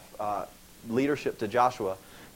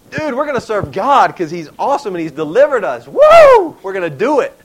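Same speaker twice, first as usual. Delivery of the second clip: loud, higher-pitched fired-up cheer; hammed-up excitement; 6 semitones higher, 13 dB louder than usual. Israelites eagerly pledging to serve God, hammed-up excitement. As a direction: whoop it up like an overjoyed crowd.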